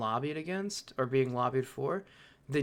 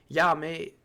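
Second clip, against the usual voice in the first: put-on Australian accent; 3 semitones higher, 5 dB louder than usual. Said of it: "I can't do a fucking Australian accent".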